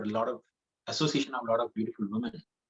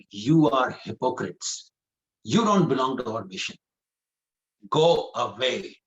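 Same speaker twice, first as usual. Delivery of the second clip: angrier doorkeeper. Acted. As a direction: drag out the angry go away. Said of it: "he gets even more angrier".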